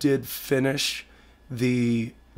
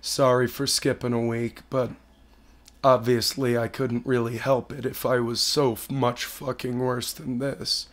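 hoarse sick voice. Real, not acted. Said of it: "I sound like shit right now".

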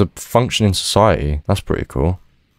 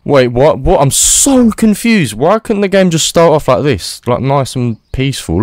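much higher, louder bewildered cry; shocked disbelief; 10 semitones higher, 4 dB louder than usual. Real, not acted. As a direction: squeal in total confusion. Shocked after game scene change.

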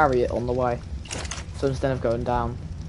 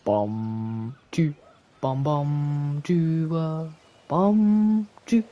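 anime character impression; much slower than usual. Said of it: "tried to do an impression of an anime character".

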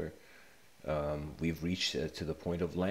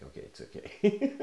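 put-on much higher and louder, a kid talking himself into it; high mock self-reassurance; 6 dB louder than usual. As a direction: squeak out a nervous "it's okay" to yourself. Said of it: "so he's like".

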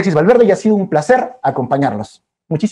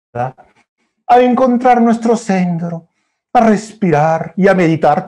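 very slow and soothing; calm; slower than usual. Acted. Guiding children toward calm, very slow and soothing. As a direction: draw it out gently.

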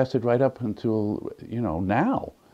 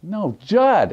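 firm correction; 12 semitones higher, 7 dB louder than usual. Retold or imitated. Correcting uncle on the phone.

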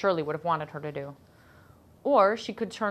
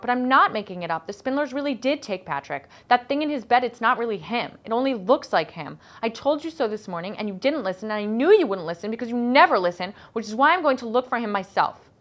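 higher, louder, desperate outburst; a girl defending herself to her mother, bursting out; 5 semitones higher, 5 dB louder than usual. A narrator's reading. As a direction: let it all spill out at once, upset and loud. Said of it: "Liza burst out".

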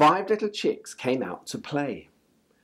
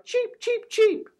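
very high, tiny chick cheeps; chick cheeping. A narrator's reading. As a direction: peep it like a baby bird. Chick sound in picture book.

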